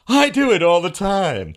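loud, slow, high sneering Scott; prejudicial mocking. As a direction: drag it out like a smug fool. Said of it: "that was prejudicial mocking".

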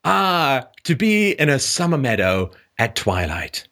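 mock poetic saying. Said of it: "Like that old saying".

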